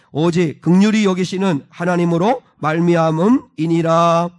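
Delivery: loud, measured reading aloud; scripture reading. Real, not acted. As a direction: read the verse out firmly to a congregation. Reads scripture aloud to congregation.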